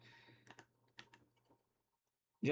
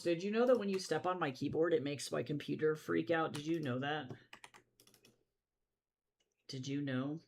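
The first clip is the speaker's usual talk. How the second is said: sing-song pet talk; 3 semitones higher than usual. Real, not acted. Lecturing the cat sing-song.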